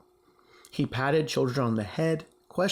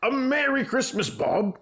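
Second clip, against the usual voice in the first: sincere; 9 semitones higher than usual. Acted. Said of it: "with a sincerity that could not be mistaken".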